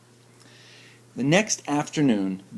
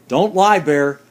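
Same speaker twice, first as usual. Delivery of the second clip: firm Duck voice; 3 semitones higher, 7 dB louder than usual. Acted. Duck scolds Bear.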